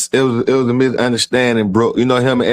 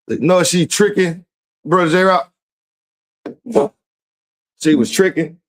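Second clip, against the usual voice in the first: pitched up in disbelief; excited disbelief; 8 semitones higher than usual. Real, not acted. Excited reaction to message.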